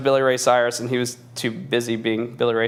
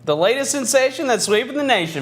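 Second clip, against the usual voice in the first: ad announcer voice; 9 semitones higher than usual. Acted. Mock ad slogan.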